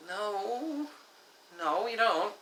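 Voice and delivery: high, drawn-out delicate denial; gentle mock correction. Correcting the virgin on anatomy, mock delicate. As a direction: pitch it up as if breaking it to her. He patiently contradicts her.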